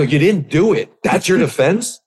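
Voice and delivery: incredulous retort. Retold or imitated. Boss answering employee's weak denial, incredulous. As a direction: throw the excuse back in mock disbelief.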